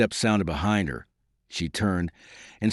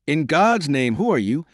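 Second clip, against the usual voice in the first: higher-pitched, mildly anguished demand; agonized cry; 6 semitones higher, 4 dB louder than usual. A narrator's reading. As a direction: cry out in restrained agony. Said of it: "cried in accents that bespoke internal agony".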